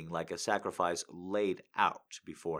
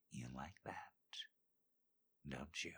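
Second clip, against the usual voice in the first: whispered growl; 5 semitones lower, 18 dB quieter than usual. Acted. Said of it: "Dean growled behind me".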